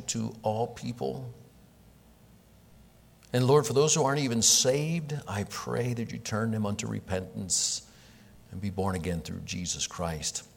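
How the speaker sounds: hushed, earnest pulpit prayer. Acted. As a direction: pray it humbly over the church. Pastor leads a prayer.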